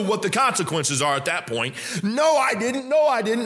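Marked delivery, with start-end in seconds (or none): 2.0-3.4 insistent denial. Acted. Judged man insisting to God he is innocent, insistent denial. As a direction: deny it hotly, voice pitched way up.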